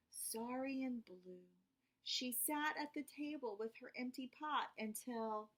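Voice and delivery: put-on gentle read-aloud for kids; storybook narration. A narrator's reading. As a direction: tell it like a bedtime story. Reading picture book to children.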